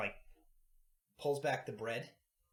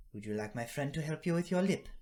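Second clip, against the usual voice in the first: put-on higher, louder old woman; kindly granny offer; 6 semitones higher, 6 dB louder than usual. Granny offering healing to the boy, higher and kindly. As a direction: offer help warmly.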